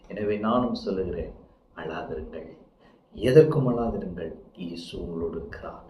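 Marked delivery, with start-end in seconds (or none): 1.8-2.5 low, very soft comfort; softly reassuring; gentle reassurance. Real, not acted. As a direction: lower your voice to console the listeners. Preacher passes the comfort to listeners.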